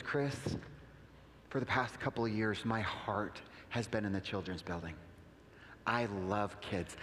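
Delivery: low, soft, confiding retelling; quietly earnest quoted voice; heartfelt, retold. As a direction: imitate a tender confession, slowing at the end. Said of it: "Why are you getting so emotional?".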